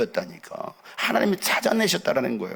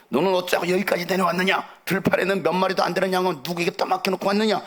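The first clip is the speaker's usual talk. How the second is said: acted older brother's reproach, pitched higher; mildly cross, demanding questions in a raised pitch; angry scolding; 5 semitones higher than usual. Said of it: "다윗에게 화를 내면서 꾸짖습니다". (동생을 꾸짖는 형의 화난 말투)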